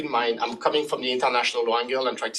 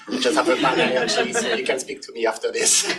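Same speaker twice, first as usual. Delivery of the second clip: laughing; 4 dB louder than usual. Real, not acted. Joking about her bad energy.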